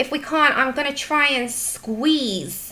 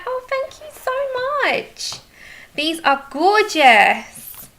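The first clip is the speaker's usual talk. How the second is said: much higher thanks fading to a breathy whisper; retold gushing thanks; 9 semitones higher, 4 dB louder, slower than usual. Retelling thanking the sender for the present, high gushing thanks trailing to a whisper. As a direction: gush with delight over a gift. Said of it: "I was like".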